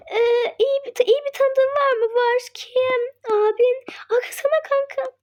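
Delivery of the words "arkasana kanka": soft crying whisper; hushed sob; tearful whisper. Pretend. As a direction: whimper it quietly. Hidden, tearful.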